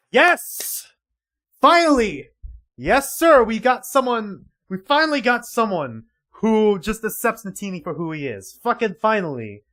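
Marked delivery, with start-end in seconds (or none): 0.1-6.8 loud, high, triumphant shouts; elated cheering. Real, not acted. Fan celebrating that someone accepts Natini, elated cheering. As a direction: burst out cheering, each word punched.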